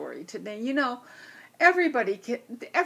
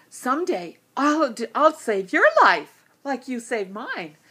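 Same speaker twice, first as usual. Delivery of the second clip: tiny bee's promise; 4 semitones higher, 8 dB louder than usual. Acted. Bee promises the lion.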